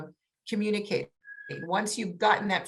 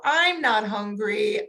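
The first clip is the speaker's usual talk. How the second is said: slow modelling; 3 dB louder, slower than usual. Shown as a demonstration. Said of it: "use that tone and say".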